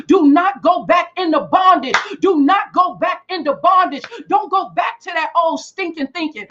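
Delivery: pressing repeated warnings; preaching at full force. Real, not acted. Warning the congregation not to go back, preaching hard. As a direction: drive each don't home.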